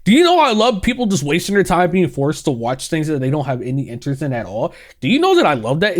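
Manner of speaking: lightly voiced gloating executive; mock evil CEO. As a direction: gloat like a cartoon boss. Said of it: "you sound so evil saying that".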